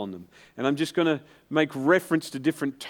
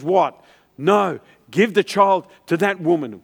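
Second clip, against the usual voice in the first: urgent protest; 2 semitones higher, 6 dB louder than usual. Acted. Voices the real mother's protest.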